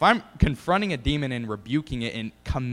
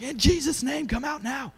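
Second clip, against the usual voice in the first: commanding a demon; 13 semitones higher than usual. Retold or imitated. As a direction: order the demon out with full force.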